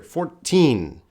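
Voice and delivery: "Fourteen" ending on a clear, nasal n. Shown as a demonstration. Teacher showing the nasal n at the end of fourteen. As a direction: let the n of "Fourteen" ring through the nose. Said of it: "the N is a nasal sound".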